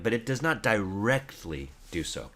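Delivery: "directly" set apart with firm emphasis; deliberate weight on "directly"; stress on directly. Real, not acted. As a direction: lean on the word "directly", then let the end fall. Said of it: "my emphasis on the word directly".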